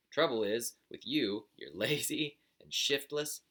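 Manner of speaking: a crotchety father slowly calling his son lazy; scolding old buzzard. Acted.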